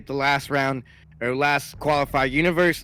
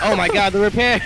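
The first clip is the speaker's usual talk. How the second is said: excited; 3 semitones higher, 5 dB louder than usual. Real, not acted. Excited casting moment.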